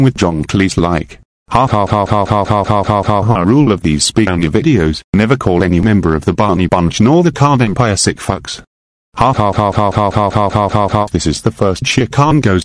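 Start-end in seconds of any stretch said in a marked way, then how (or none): 1.5-3.4 mechanical, evenly repeated "ha"; mock laugh. Narrator acting out his rampage, mechanical mock laugh. 9.2-11.1 mechanical, evenly repeated "ha"; mock laugh. Narrator acting out his rampage, mechanical mock laugh.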